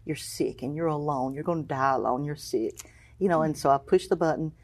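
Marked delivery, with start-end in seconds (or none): 0.0-2.8 taunting inner enemy. Retold or imitated. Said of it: "the enemy just kept playing that over".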